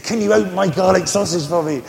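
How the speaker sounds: mock pleading laughing; laughing through quote. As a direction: giggle through the tramp's plea. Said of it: "He said".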